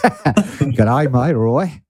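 hammed-up Aussie greeting through a laugh; mock Australian g'day, amused; Australian accent. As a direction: throw out a jokey Australian hello. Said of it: "eight out of ten for the Australian".

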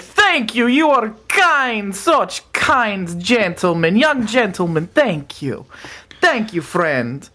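slow, lightly voiced thanks; a hint of a gracious creature; grateful Frosty. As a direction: creature thanking the kitchen boys, slowly.

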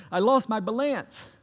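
high comic yelp, pitch swooping up; mock wail from a slapstick fall; Larry of the Three Stooges. Pastor quoting a Stooges scene to church, mock comic wail. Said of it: "and Larry goes".

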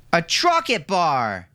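high, slow eager yell of A Trocket bar with Trocket stretched; a little boy shouting for his treat; excited child shout. A narrator's reading. Milo on the bed demanding a Trocket bar, high excited shout. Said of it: "shouted Milo".

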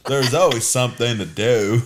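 lightly imitated film narrator; movie character quote. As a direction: recite it as a quoted movie line.

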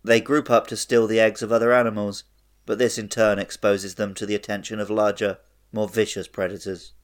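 bored, even-toned encyclopedia read. Real, not acted. Podcast host reading a creature entry to co-hosts, bored. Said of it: "the more bored everyone sounds".

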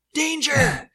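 high, loud cry of alarm; startled possum shout. Acted. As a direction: yelp it as a panicked warning. Acts out startled possum fleeing.

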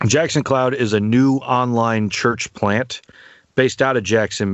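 normal talking voice

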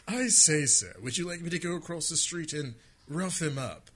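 hammed-up English butler voice; lightly posh English butler offering help; British butler. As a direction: play an overly polite British butler. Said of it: "overt British butler".

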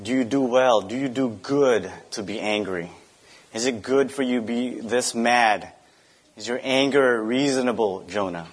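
calm and tender, no rebuke; gentle question. Retold or imitated. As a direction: ask it gently, like a patient father. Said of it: "God gently asked Jonah".

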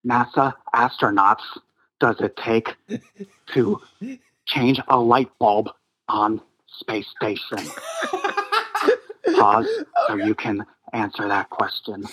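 lightly voiced chipper astronaut caller; a hint of a rambling old caller; Don Pettit impression. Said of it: "lumpy-headed Don called in again".

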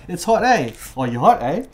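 every phrase capped with a questioning EH; talking in questions. Shown as a demonstration. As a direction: tack EH on like a question. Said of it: "everyone's just talking in questions".

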